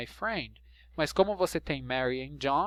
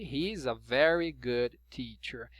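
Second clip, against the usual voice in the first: slower, careful take of He's a very good teacher; slow model sentence; 4 semitones lower, slower than usual. Shown as a demonstration. Teacher modelling the sentence for students, slow and clear. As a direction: spell out each word of He's a very good teacher for learners.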